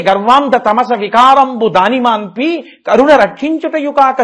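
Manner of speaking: sing-song Telugu verse. Acted. Prahlada's verse recited.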